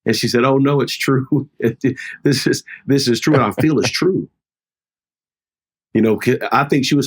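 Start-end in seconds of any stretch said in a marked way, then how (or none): 0.4-4.3 higher-pitched mock tearful wail, half-laughing; imitated crying. Wife tearfully admits to husband the call is true, imitated crying. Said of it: "then she really started crying".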